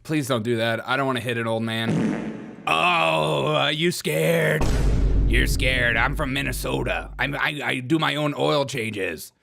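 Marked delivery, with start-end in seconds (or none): 2.7-7.1 loud, drawn-out Irish taunt; put-on Irish accent. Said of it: "my Irish accent". 7.2-9.3 slow, boastful mock Irish; put-on Irish accent. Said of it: "my Irish accent".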